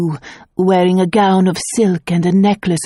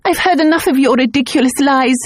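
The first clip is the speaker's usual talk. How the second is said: trembling voice; 7 semitones higher than usual. Acted. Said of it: "her voice trembling".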